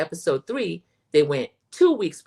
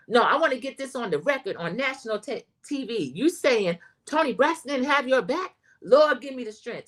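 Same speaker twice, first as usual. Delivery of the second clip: retelling an indignant reply, higher pitched; mock indignation, voice lifted; indignant retort; 5 semitones higher than usual. Acting out a singer's indignant quote.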